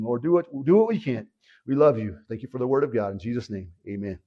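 low, earnest prayer voice; sincere spoken prayer, slightly subdued; praying aloud. Real, not acted. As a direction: lead the congregation in prayer. Leads congregation in prayer.

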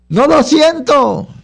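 a lightly voiced worried churchgoer, drawn out; doubting believer. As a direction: voice the doubter who can't see God.

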